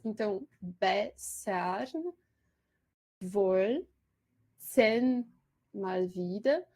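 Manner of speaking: bessern wollten mal wieder, slow, each word rising; scanned metre. Shown as a demonstration. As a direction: lecturer showing weak syllables in the verse, slow. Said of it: "duas fracas".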